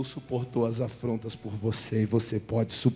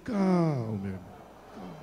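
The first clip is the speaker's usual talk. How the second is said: soothing calm. Shown as a demonstration. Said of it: "Faz com a mão assim, igual o pastor".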